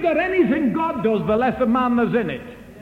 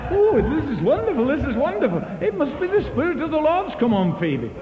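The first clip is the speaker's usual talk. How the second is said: higher, delighted voice; joyful wonder; delighted exclaim; 5 semitones higher than usual. Retold or imitated. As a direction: marvel like you see a miracle. Brother delighted in the van.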